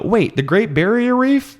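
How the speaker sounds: high slow shocked mother; astonished wife. Retold or imitated. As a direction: gasp it like a stunned mom. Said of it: "the wife's like".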